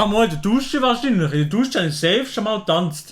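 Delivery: talking with a full mouth; words around a mouthful of food; chewing while talking. Real, not acted. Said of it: "Sorry, man isst nicht mit vollem Mund".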